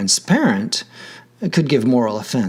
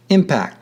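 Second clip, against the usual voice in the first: "impact" stressed on IM; stress on first syllable. Shown as a demonstration. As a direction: punch the IM of "impact", let the end fall. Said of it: "the stress is on the first syllable".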